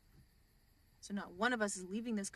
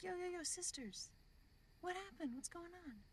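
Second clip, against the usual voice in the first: high mock priest; 9 semitones higher, 7 dB quieter than usual. Priest breaking up the fight.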